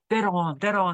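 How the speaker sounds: cheery Northern Irish "Dead on"; light Northern Irish impression; Northern Irish accent. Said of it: "what did he always said".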